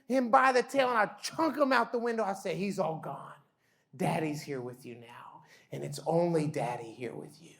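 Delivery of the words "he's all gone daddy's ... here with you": softer, gentle reassurance; calm the little girl back to sleep; soothing dad. Retold or imitated. Dad comforts daughter.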